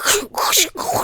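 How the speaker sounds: mouth-made creaks and crunches; rhythmic noisy floor sound effect; imitated creaky floor. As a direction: mimic stomping on creaky boards. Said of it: "It's like".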